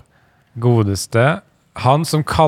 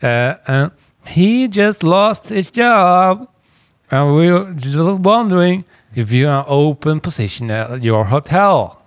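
exaggerated Norwegian-English caller; 3 semitones higher than usual. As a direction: ham up a Norwegian speaking English. Rehearsing the prank call script.

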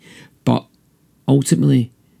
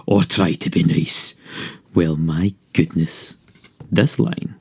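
put-on lively rhyming read-aloud for children; storybook narration. A narrator's reading. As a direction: read it like a bedtime picture book. Reading picture book aloud.

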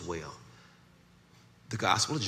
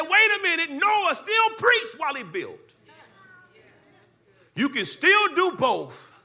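much higher, louder climactic shout; shouted preaching; 10 dB louder than usual. Acted. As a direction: hit the climax full voice.

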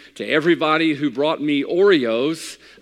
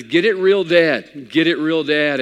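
slow, emphatic loud plea, higher; pleading loud; 4 semitones higher, 7 dB louder than usual. Retold or imitated. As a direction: beg the dentist, drawn out. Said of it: "And I says".

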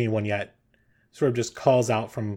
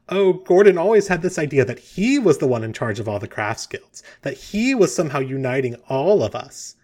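Gertie; 3 semitones higher, 5 dB louder than usual. Acted. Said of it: "Gertie just start laughing again".

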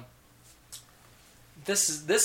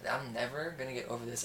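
mock sulk; 2 semitones lower, 5 dB quieter than usual. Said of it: "Voices were spot on".

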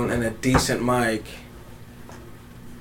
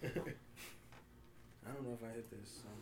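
stoner; 28 dB quieter, slower than usual. Real, not acted. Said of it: "I'm high as fuck".

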